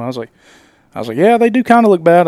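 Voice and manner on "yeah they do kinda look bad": emphatic agreement. Retold or imitated.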